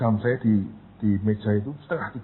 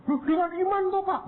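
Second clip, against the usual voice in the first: mock pious voice. Mocking the faithful advice.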